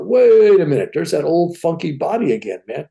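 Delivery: sudden high, loud "wait a minute"; startled at seeing his old body again; surprised exclaim. Retold or imitated. Man seeing his own body from above, surprised high call.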